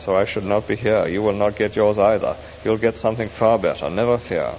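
lightly voiced, calm, kindly; reassuring spirit. The spirit reassures the ghost, kindly. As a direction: gently promise him better.

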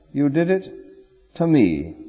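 pause, then land on "me" in "you did it to me"; stress on me. Shown as a demonstration. Preacher quoting Jesus, weighting "me" in the verse. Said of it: "That's the emphasis".

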